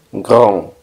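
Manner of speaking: grand with a nasal vowel before the silent D. Shown as a demonstration. Teacher shows learners the nasal A in grand. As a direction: say grand as "grahn", vowel through the nose. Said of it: "La N hace que la A suene nasal".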